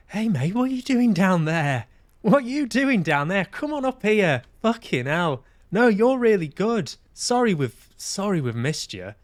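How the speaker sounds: high, loud, hearty call down to him; imagined cheery rescuer. Pretend. Imagined agent calling him up the ladder, high and hearty. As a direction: boom like a chummy boss hauling him up.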